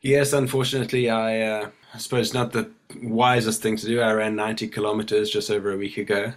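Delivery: hoarse from a cold; croaky, cold-roughened speech. Real, not acted. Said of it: "you got a bit of a croaky voice".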